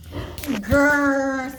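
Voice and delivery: mock rhino growl; a lightly voiced rhino growl. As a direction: growl it like a grumpy beast. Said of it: "said the rhinoceros".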